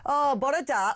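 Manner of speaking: a light South Wales lilt on the greeting; mock Welsh accent. Host greets Welsh caller Ian, echoing his South Wales accent. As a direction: greet him back in a hint of a Bridgend accent. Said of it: "the sort of Bridgend accent".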